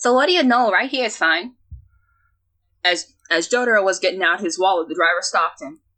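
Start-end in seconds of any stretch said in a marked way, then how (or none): 0.0-1.5 attempted Midwestern accent, pitched up. Reading a story, a passenger tells the driver where to stop: attempted Midwestern accent. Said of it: "I'm trying for Midwestern".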